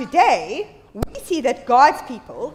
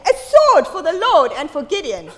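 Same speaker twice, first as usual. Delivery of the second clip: louder cry with a laugh; a half-laughing louder war cry; battle cry demo; 6 dB louder than usual. Shown as a demonstration. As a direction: call it out like a rallying cry. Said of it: "you're gonna say".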